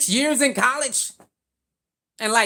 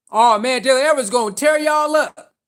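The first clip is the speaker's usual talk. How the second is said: mocking hater; 3 semitones higher, 4 dB louder than usual. Quoting hater comments.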